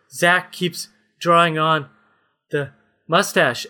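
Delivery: slightly slow, mildly worn-out delivery; exhausted voice. Acted. Captive Henry Cavill complaining about Zach, mildly exhausted. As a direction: lightly play someone worn out. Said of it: "in kind of an exhausted voice".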